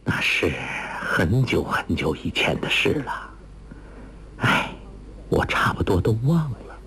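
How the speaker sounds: low, softly trailing off into a whisper; wistful sigh. Acted. Mother recalling something long ago, wistful and fading. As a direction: sigh it out, fading on the last words. Wistful woman sighing over the past.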